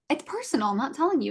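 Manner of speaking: high-pitched, insistent brush-off; retold refusal. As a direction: re-enact putting your foot down. Retells refusing his pushing.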